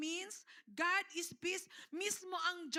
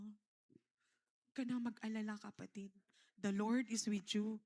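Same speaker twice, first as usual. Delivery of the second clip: low, soothing reassurance; reassuring; 7 semitones lower than usual. Pretend. Preacher has the congregation comfort their seatmates, reassuring.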